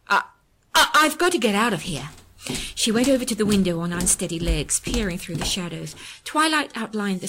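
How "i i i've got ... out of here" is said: frightened. Acted. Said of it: "Now fear overcame her".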